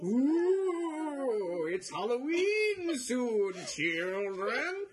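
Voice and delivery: high, slow, loud spooky ghost voice; unearthly voice. Pretend. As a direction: croon it like a Halloween ghost. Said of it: "That was really creepy".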